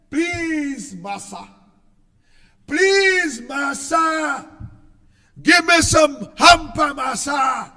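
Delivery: hammed-up pleading to the master, voice swinging up and down; mock begging slave. Mocking voters who beg the ruler, mock pleading. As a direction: mimic a groveling beggar, mocking. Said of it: "kneel at his feet and beg".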